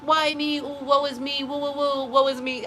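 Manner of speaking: high, hammed-up woe-is-me moan; theatrical fake lament; mock wailing. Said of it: "Don't sit".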